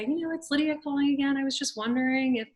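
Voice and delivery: butter her up sweetly on the phone; a pleading, sugary phone request; sweetly asking. Retold or imitated. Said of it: "I would sort of sweetly say".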